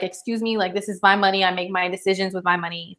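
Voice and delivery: mock indignant. Parent to kid about money, quietly indignant. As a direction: claim the money as yours, calmly.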